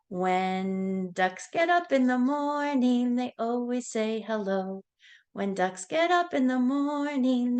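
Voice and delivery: sing-song nursery rhyme voice; reading to a toddler. Acted. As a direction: chant it brightly for little kids. Sing-song animal rhyme for kids.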